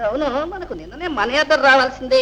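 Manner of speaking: ordinary talk, nothing marked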